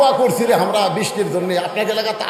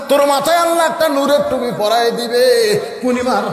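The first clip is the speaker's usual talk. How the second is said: sing-song sermon storytelling with rising swells; melodic preaching; slower than usual. Acted. Preacher tells the crowd Bilal's story, melodic preaching. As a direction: stretch the phrase endings into a chant.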